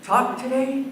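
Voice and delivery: imitating a bully's teasing stutter; mean mock stutter. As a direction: taunt by tripping on the first sounds. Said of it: "They were acting sort of mean".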